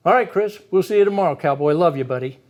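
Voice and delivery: parent voice. Shown as a demonstration. Dad saying goodnight to his son in calm parent voice. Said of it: "went into your parent voice".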